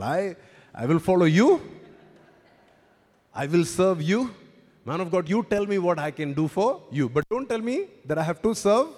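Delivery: loud, defiant refusal, voice pushed up high; grudging churchgoer. Retold or imitated. Church member refusing to serve the pastor's favourite, loud and defiant. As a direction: play the stubborn church member who won't budge. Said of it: "Now you're like".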